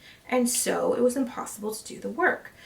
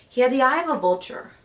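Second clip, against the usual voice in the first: vehement; 3 semitones higher, 6 dB louder, faster than usual. Acted. Disgust at the old man's eye.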